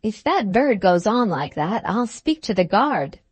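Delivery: usual speaking voice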